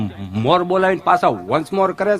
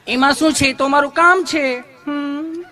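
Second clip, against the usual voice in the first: higher, sugary nurse voice with a questioning hum; sweet nurse; 6 semitones higher, slower than usual. Retold or imitated. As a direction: play the gushing nurse, all honey.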